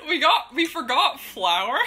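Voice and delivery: giggling through the confession; laughing it out. Real, not acted. Laughing at the failed cake.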